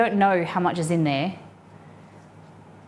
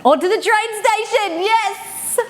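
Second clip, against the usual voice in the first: squeaky high tag; 14 semitones higher, slower than usual. Pretend. Cowboy skit, squeaky tag.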